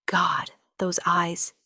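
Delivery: slow awed whisper. A narrator's reading. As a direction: breathe it out, spellbound. Awed inner thought.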